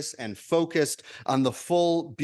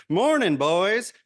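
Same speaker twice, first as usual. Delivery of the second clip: put-on higher, slow, folksy greeting from a wise old fish; 6 semitones higher, 3 dB louder, slower than usual. Minister voicing the old fish in a parable, high and slow. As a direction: stretch it out like a kindly elder fish. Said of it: "I'm assuming that's how he sounded".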